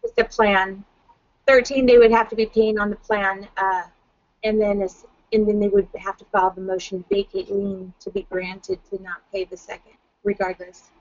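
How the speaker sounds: echoey, distant sound; like talking from inside a cave. Real, not acted. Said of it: "you sound like you're in a cave".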